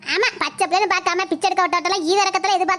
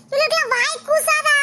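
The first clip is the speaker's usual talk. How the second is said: scornful aside; 5 semitones higher than usual. Acted. Neighbour scoffs at her acting.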